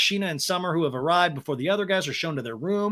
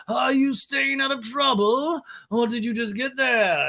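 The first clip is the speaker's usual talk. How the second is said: high, drawn-out put-on voice; Lisa impression; 7 semitones higher than usual. Older boss checking in on the girls by FaceTime, mock impression. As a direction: pitch it up and stretch it out. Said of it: "And Lisa's like".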